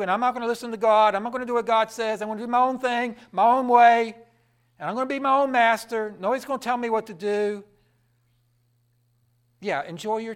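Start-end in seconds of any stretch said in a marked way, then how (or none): 0.0-7.6 loud, fast stubborn boasting; a hint of a rebel's swagger; mock defiant sinner. Preacher mocking a sinner who refuses God, loudly.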